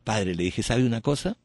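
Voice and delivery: serene answer to the priest; calm serene reply. Shown as a demonstration. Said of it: "el mismo timbre de voz".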